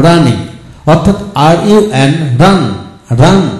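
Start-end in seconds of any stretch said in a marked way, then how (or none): 2.4-3.5 "রান" with weight held on the closing n; stressed final N. Shown as a demonstration. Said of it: "এন এর উচ্চারণ বেশি হলো".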